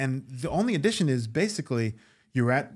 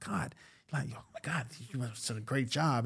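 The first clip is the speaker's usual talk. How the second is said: soft whisper; 8 dB quieter than usual. Retold or imitated. Whispered praise to Larry.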